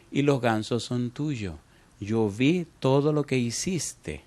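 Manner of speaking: a gentle mother forgiving her son; lightly voiced tender mom; calm forgiving mother. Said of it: "la mamá, tranquila".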